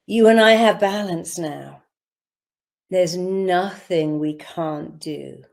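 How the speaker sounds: with feeling. Shown as a demonstration. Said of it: "say everything I'm saying with feeling".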